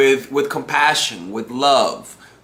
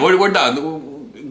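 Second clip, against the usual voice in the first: slow, deliberate "we're, we're done"; repeating the verdict to the girl, slow; slow drawn-out repeat; much slower than usual. Retold or imitated. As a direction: spell it out slowly for finality.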